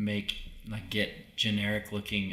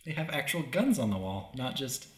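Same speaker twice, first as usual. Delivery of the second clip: excited inner quote; 5 semitones higher than usual. Retold or imitated. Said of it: "I'm like".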